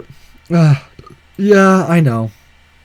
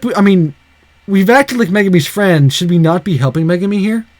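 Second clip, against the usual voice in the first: upset, pleading conscience; worked-up concern; 3 semitones higher than usual. Real, not acted. Upset aside about Megumi.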